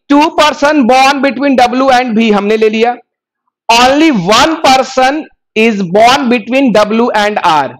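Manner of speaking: slow, deliberate reading of the English clue. Shown as a demonstration. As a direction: read it word by word for the class. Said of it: "reading clue slowly aloud".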